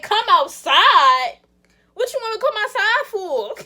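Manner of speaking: outraged, shouting at the ex; indignant outburst. Retold or imitated. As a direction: fire it back at him in disbelief. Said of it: "That's exactly how I was".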